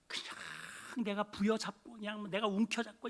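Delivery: slow, hushed whisper. Real, not acted. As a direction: whisper it slowly, holding on tight. Describing clinging parents. (느리게 속삭이며)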